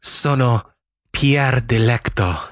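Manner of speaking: slow Italian name through laughter; Italian accent. Pretend. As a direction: laugh while saying it Italian-style. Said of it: "That means I am Pierre Delecto in Italian".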